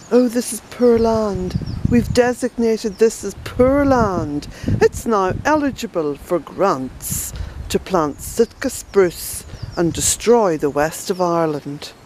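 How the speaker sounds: a mild, sneering parody of the EU's official line; mocking EU officials. Gardener mocking the EU's poor-land ruling, lightly sneering. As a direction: lightly mimic the bureaucrats with scorn. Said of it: "that nonsense from the E U".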